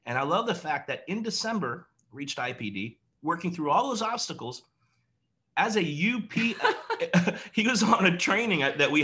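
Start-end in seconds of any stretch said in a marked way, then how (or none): 5.6-7.5 laughing. Real, not acted. Laughs recalling the UPS driver.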